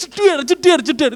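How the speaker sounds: loud mimicked repeated impacts; imitated banging. Pastor mimics child hitting wall, imitated banging.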